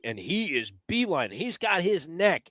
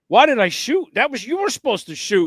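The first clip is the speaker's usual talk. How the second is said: excited dismay; 9 semitones higher, 5 dB louder than usual. Retold or imitated. Retold panic after shot.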